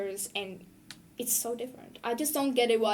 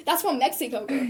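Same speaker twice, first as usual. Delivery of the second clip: sassy correction; 3 semitones higher, 4 dB louder than usual. Retold or imitated. Continuing the acted retort.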